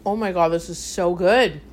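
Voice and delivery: talking through chocolate; eating chocolate. Real, not acted. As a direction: mouth full of chocolate. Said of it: "take a bite of my bar".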